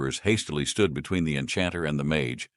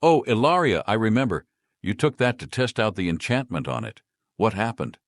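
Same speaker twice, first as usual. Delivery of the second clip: startled recognition; 6 semitones higher, 3 dB louder than usual. Acted. Shopkeeper startled.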